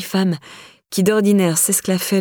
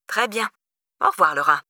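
singsong stepmother; 2 semitones higher than usual. A narrator's reading. Stepmother ending her voicemail to Laura, singsong. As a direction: sing out a tidy goodbye. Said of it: "comme si elle s'apprêtait à chanter".

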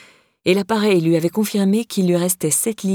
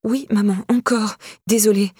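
higher-pitched, mildly contrite daughter; sheepish admission; 4 semitones higher than usual. A narrator's reading. Daughter owning up to her mother, mildly sheepish. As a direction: admit "encore" at normal volume, pitch raised, falling at the end.

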